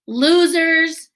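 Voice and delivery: high, loud taunt; shouted really loudly. A narrator's reading. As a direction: yell it after the bullies. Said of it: "Henry shouted really loudly".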